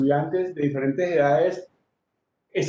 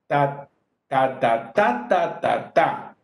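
third "ta" pitched up and stressed; accent on third; 3 semitones lower, much slower than usual. Shown as a demonstration. Teacher sounding pasillo accents, stress on the third "ta". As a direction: chant "ta, ta, TA", lifting the third. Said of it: "acentuado en la tercera y en la sexta".

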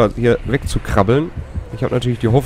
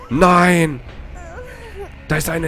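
high, drawn-out cry of protest; dismayed cry; 8 semitones higher, slower than usual. Real, not acted. Player lying hurt in the game, dismayed cry.

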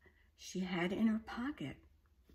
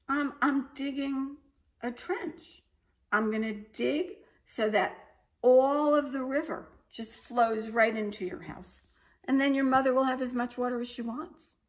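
put-on higher, louder cocky girl voice; smug little girl; 6 semitones higher, 6 dB louder than usual. A narrator's reading. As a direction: brag slyly about the plan. Alexandra boasting to dragon.

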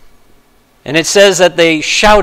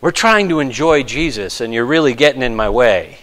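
annoyed crowd; 3 semitones lower, 6 dB quieter than usual. Retold or imitated. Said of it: "they're saying".

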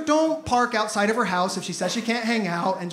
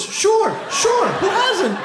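sarcastic; 9 semitones higher, much slower than usual. Real, not acted. Sarcastic self-defence aside.

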